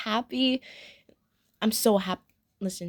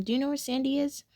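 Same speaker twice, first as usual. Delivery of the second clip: lightly acted nice question, higher pitched; acting nicely; 4 semitones higher than usual. Molly asking where Sandy is, acted nicely. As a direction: ask it nicely, imitating a helpful friend. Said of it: "Molly acts so nicely".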